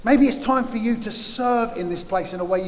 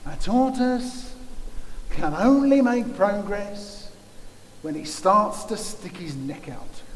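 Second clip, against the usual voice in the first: a light, slow hint of David Attenborough's hushed nature-documentary narration; hint at Attenborough, slow and careful; slower than usual. Preacher quoting David Attenborough, lightly imitating his slow delivery. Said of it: "And David Attenborough said".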